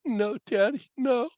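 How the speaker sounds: mock tearful boyish plea; tearful little boy. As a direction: imitate a crying son pleading, slowing at the end. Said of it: "he burst into tears".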